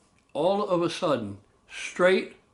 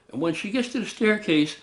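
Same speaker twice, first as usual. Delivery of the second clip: ordinary delivery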